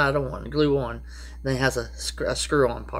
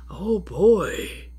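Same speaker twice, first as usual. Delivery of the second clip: exasperated; 7 semitones higher than usual. Real, not acted. Exasperated aside about trespassers.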